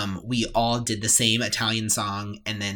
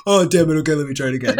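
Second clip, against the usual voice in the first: mock frustrated classmate; loud curse easing into a laughing retry; Zoe; 2 semitones higher, 5 dB louder, faster than usual. Classmate caught breathing in wrong place, mock frustration. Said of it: "And she'd go".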